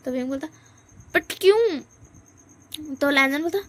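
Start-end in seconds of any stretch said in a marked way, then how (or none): 1.1-1.8 startled why. Acted. Wing startled.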